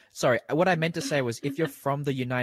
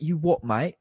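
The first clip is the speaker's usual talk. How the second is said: higher, louder imitated British accent; 4 semitones higher, 5 dB louder, slower than usual. Host imitates people on TV with accents, British accent. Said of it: "people, like, with accents".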